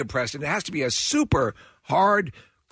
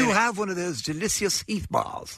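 mock Victorian boy; 4 semitones higher than usual. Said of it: "Presently the boy said".

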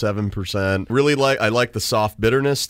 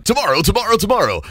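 laughing; 11 semitones higher, much faster than usual. Real, not acted. Laughing teasing reply.

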